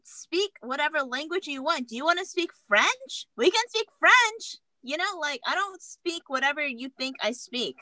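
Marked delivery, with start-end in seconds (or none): 0.0-4.6 mock-offended, pitch climbing on questions; retold indignant comeback. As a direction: tell him off, drawing out words.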